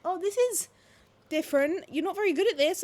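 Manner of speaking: boxing coach impression. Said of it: "he was like".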